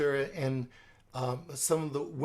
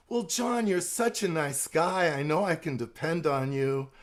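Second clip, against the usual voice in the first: flattering Susan. Shown as a demonstration. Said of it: "sensitive assertion".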